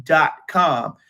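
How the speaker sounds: brisk sponsor read. Acted. Sidekick reading the sponsor spot to viewers, ad read voice. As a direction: sell the sponsor like an ad. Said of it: "let 'em know who paid for the show".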